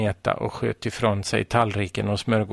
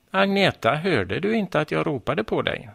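stern; 6 semitones higher than usual. A narrator's reading. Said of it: "frågade mamma strängt".

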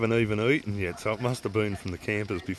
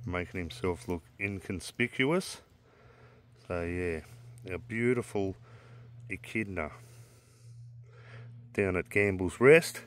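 softly, so as not to spook the animal; hushed; 6 dB quieter than usual. Real, not acted. Spotlighting an echidna at night, speaking softly and hushed.

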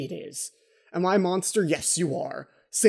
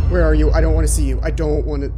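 scared shout; 9 dB louder, faster than usual. Real, not acted. Scared, calling out in game.

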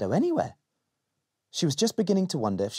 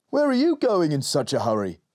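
calling out; 3 semitones higher, 3 dB louder than usual. Acted. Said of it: "called Dad".

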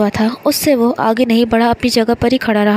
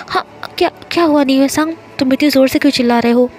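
startled; 2 semitones higher, faster than usual. Acted. Startled student jolted from daydream asking why he's shouting, fast flustered. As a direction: caught off guard and flustered, rushing the words. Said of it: "हड़बड़ाकर".

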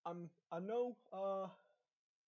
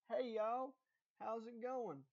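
higher-pitched mock Texan greeting; stereotypical Texan accent; 6 semitones higher, slower than usual. Texan parodying a stereotypical Texan greeting, mock Texan accent. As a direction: play up a cartoon Texan twang. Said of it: "stereotypical Texan that's just like".

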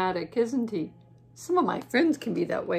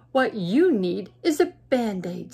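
fox voice; 6 dB louder than usual. Acted.

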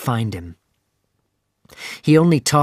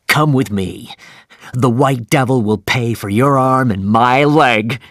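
louder, gleeful call; rally him with fierce joy; a happy, loud invitation to revenge; shouted happily; 4 dB louder than usual. Acted. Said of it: "he shouted happily".

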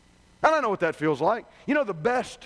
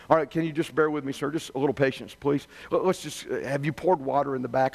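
lower, patient service voice; calm customer rep; 7 semitones lower than usual. Retold or imitated. Rep walks the angry customer through the checklist, calm and lower. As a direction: keep steady and polite with a difficult caller. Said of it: "The rep calmly replies".

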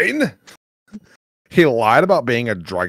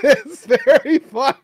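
high, slow alien merchant voice; croaky buzzing alien trader; Watto voice; 4 dB louder than usual. Acted. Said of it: "the Watto voice is very fun to do".

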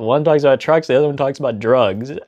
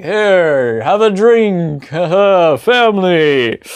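stiff acted cheer; 4 semitones higher, 6 dB louder, much slower than usual. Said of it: "someone else is like".

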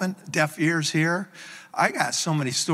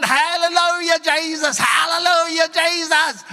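high, loud, imitated shouts of praise; ecstatic praise shout; 12 semitones higher, 5 dB louder than usual. Boy praising after the healing, high ecstatic shouting. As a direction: cry it out at the top of the voice. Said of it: "The, the boy's going".

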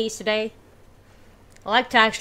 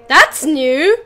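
surprised; 4 semitones higher, 8 dB louder than usual. Real, not acted. Shocked by the gruesome ending.

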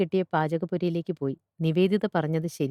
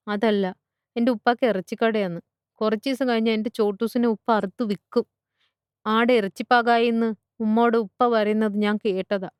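put-on higher-pitched child's voice, pleading; upset little schoolgirl; 5 semitones higher than usual. Schoolgirl tells teacher her pet goat will be slaughtered, upset child voice. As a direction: play a worried child explaining.

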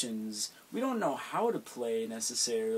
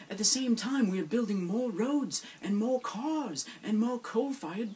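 impassioned; 7 semitones higher than usual. Acted. Earnest activist outburst.

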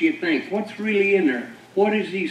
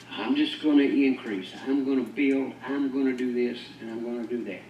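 smug rich man; 6 semitones lower, 7 dB quieter than usual. Acted. Rich man voiced in sermon.

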